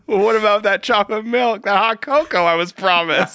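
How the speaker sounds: high, petulant cartoon girl; whiny girl voice. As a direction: whine like a spoiled teen. Voicing Serena whining about cocoa.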